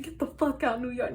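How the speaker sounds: 笑いながらふざけて追い出す; mock shoo-off. Mock kicking out unwanted people.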